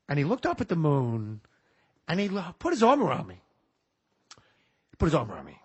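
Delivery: a hint of tender Pacino; Pacino telling a story. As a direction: Pacino impression, mildly warm. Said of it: "I'm gonna do it as him".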